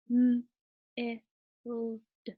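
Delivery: MILD sound by sound, "mmm, ih, lll, d", then "milld"; stretched sounding out. Shown as a demonstration. Teacher showing stretchy snake reading, stretched sounding out. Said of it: "using the stretchy snake strategy".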